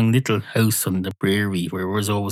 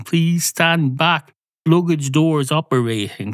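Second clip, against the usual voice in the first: automated announcement; 5 semitones higher than usual. Retold or imitated. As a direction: read it like a recorded announcement. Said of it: "an automated voice going".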